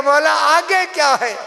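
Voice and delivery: mourning reciter voicing a lady's scream; retold scream. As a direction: cry out the question as the grieving lady. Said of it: "बीबी चीख कर कहती है".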